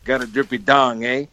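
put-on lightly French-accented pirate, teasing; a hint of a French pirate's leer. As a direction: Eugene Levy's pirate teasing Matthew Perry, lightly French. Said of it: "looks at him and is like".

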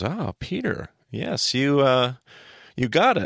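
high-pitched pleased exclamation, lightly acted; acting out delighted approval; Jesus. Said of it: "I wonder if Jesus goes".

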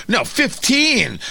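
slow, insistent mock politician bargaining; mock haggling. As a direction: drag it out like a stubborn negotiator. Acting out Democrats haggling.

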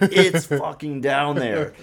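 slow insistence broken by a laugh; laughing retold insistence. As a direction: laugh through the stubborn claim.

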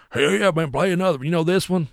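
high-pitched cheering request; excited bar patron. Retold or imitated.

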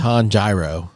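"Tanjiro" as tahn-JAI-ro; teasing mispronunciation. Shown as a demonstration. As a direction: say "Tanjiro" with a long "eye" in the middle. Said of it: "keep saying it that way 'cause it bothers you".

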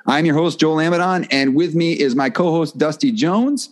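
a polished podcast-announcer read with a lifted, rhythmic cadence; announcing voice. Acted. Host opening the podcast for listeners, in his announcer voice. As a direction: roll it out like a radio host opening the show.

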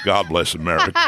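low mock American president; doddery elderly politician impression; Joe Biden. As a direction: put on an old statesman's low American voice. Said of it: "Joe Biden".

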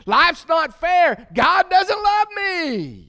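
loud, high, slow bitter cry; bitter complaint. Retold or imitated. Joseph imagined crying out bitterly against God, loud and slow. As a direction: wail it like a bitter man giving up. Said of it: "gotten bitter and said".

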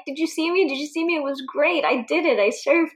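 put-on childlike pride, bouncing up; proud excitement.

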